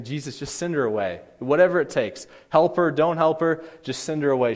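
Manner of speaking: mock exasperation, mildly acted; annoyed. Preacher voices disciples begging Jesus to dismiss the woman, annoyed. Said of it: "the disciples are obviously annoyed by it".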